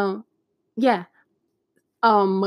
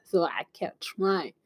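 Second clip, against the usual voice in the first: ordinary talk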